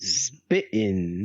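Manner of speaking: low-pitched segment-title voice; deep announcer echo. Acted.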